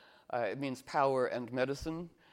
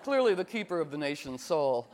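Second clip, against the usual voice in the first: mock grand declaration; 3 semitones higher, 5 dB louder than usual. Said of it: "And I go".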